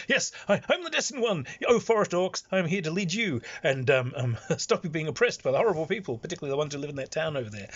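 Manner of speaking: grand forest king. Retold or imitated. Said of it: "turns up and says".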